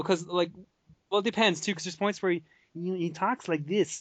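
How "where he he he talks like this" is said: Kermit-like voice. Retold or imitated. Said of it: "kinda like a Kermit the Frog".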